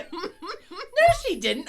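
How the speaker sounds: high, laughing denial; husband whipping round to deny; incredulous husband. Retold or imitated. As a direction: snap the denial back. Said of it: "whipped around and looked at me".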